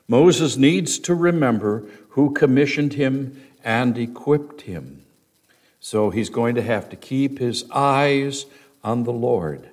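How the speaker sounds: ordinary talk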